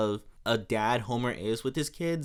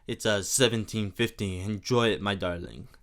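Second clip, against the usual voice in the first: light mock French accent; lightly hammed French suitor; 5 semitones lower than usual. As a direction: flirt in a hint of a put-on French accent. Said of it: "it's just such a fun accent to do".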